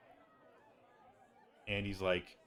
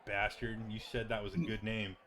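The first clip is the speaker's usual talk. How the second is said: mock annoyance; 4 dB louder than usual. The speaker scolds Andy over name.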